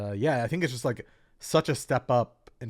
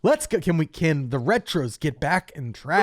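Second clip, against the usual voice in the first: hyped high, loud shoutcaster call; esports commentator; 6 semitones higher, 5 dB louder than usual. Shown as a demonstration. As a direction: call it like a pumped-up caster. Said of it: "It's like an esport commentator style".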